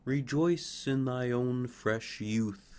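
slow, gentle, glowing; a touch of tender blessing; air and sunlight. Acted. Air and sunlight blessing the fir's youth. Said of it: "said the air and the sunlight".

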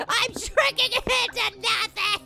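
hammed-up wail, drawn out slowly; mock wailing. Player despairing at shrinking in game, mock wailing.

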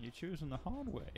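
put-on ogre threat, kept soft; Shrek. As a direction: play a cartoon ogre, swooping up at the end. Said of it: "if it was actually Shrek's voice".

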